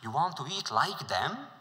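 horrified prince crying out at his friend. Acted. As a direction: cry out in horror at the food. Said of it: "horrified, cried out".

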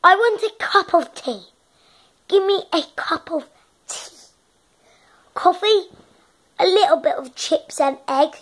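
put-on posh English, carefully stretched; posh English accent. Kid boasts about going to Oxbridge, posh English accent. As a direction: play it as posh upper-class English. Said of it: "posh English".

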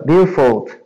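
billfold said \"BILL-fold\". Shown as a demonstration. Teacher models billfold for the class, clear pronunciation. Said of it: "O americano chama a carteira de billfold".

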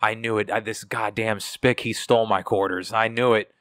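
mock outburst of angry accusation; angry old man. Coworker retells customer accusing him over quarters, angry. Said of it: "this angry old white dude".

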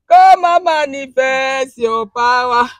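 pleading prayer chant, rising in force; fervent prayer. Real, not acted. Woman pleading with God in prayer. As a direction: pray it out, begging for power.

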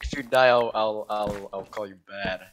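fading threat. Real, not acted. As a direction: let the threat fade to almost nothing. Teammate near death.

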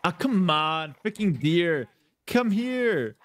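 mock exasperation, blaming a stubborn animal; Doubt. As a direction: imitate a streamer complaining at a deer, rising in pitch. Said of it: "then he blames the deer".

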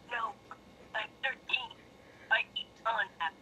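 lightly voiced brooding hero; a hint of a moody, quiet antihero; Shadow impression. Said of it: "Is that a Shadow impression?".

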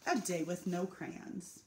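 gentle storytelling read to an audience; picture book reading. A narrator's reading. Reading a picture book to the residents, lively storytelling.

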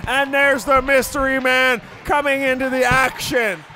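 deep announcer voice. Acted. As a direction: boom out the hockey action. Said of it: "we've been using our deep voice".

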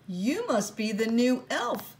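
a touch of a brisk little elf; lightly voiced little man. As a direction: greet the newcomer like a busy little man. Little man greets Sophie.

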